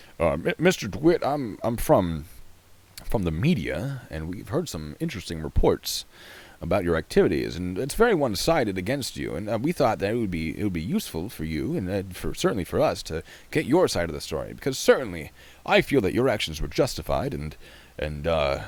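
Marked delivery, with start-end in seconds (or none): 0.6-17.3 posh, put-on, pretend-refined speaking voice. Speaker rehearses addressing mister dewitt as someone from the media, in a put-on fancy voice. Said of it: "Try to pretend I'm fancier than I am".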